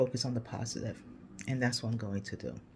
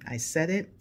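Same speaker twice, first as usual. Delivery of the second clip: grandmother's saying; 5 semitones higher, 5 dB louder than usual. Retold or imitated. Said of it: "as my grandmother said".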